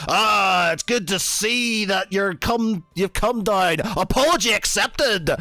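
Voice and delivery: smug forgiveness. Acted. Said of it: "he sort of kind of says".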